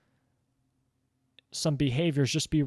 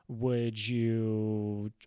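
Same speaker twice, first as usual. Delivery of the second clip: slow, firm and deliberate; demonstrating a firm parent's voice. Shown as a demonstration. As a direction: lay each word down firmly, slowly. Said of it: "firm in your voice".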